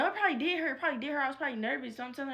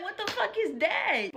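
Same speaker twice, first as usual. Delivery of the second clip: high, loud, laughing "what the fuck"; shocked laughing outburst; 8 semitones higher, 4 dB louder than usual. Retold or imitated. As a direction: blurt it out in stunned disbelief through a laugh. Shocked at what she suggests.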